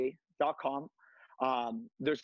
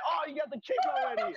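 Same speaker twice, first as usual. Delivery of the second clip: high, laughing exclamation; laughing surprise; 14 semitones higher than usual. Real, not acted. Instructor surprised by the host's kick, laughing. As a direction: laugh it out, caught off guard.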